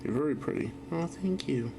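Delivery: put-on high cutesy little girl voice; squeaky playful child voice; cute girly voice.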